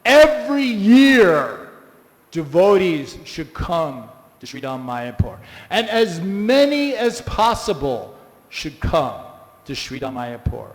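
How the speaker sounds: a lightly voiced guru, firm and loud on no; a firm no, then slow and insistent; hint of a stern teacher settling it; Prabhupada's firm reply. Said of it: "Prabhupada says".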